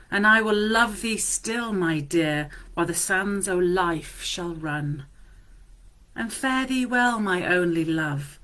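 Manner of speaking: slow, measured love poem recital; tender reading of a Scottish love poem. Acted. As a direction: savour each line like a love letter. Reads Burns poem aloud.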